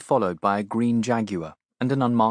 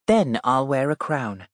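gentle, higher royal voice; a kind princess stooping to a child; cartoon princess; 4 semitones higher than usual. Princess answers the girl.

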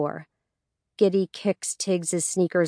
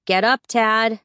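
louder, higher order to get up; waking a sibling; 4 semitones higher, 5 dB louder than usual. A narrator's reading. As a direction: call out to rouse a sleeper. Sister orders sleeping brother up.

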